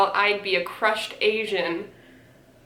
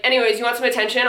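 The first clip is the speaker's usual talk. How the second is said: fast, mocking paraphrase; much faster than usual. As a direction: rattle it off like a mock. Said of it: "And then you're like".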